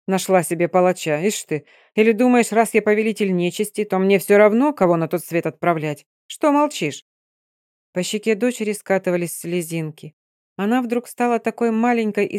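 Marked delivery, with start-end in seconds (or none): 0.1-7.0 gruff scolding, rising at the end; angry. Acted. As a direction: scold her like an angry father. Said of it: "разозлился отец".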